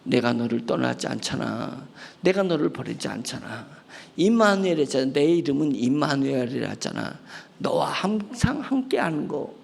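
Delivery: put-on low, soft and reassuring, like a father to a hurting child; God's tender reassurance. God comforting the weary believer, low and soft. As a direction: gently promise you will never leave. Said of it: "하나님이 내 마음을 터치하시면서".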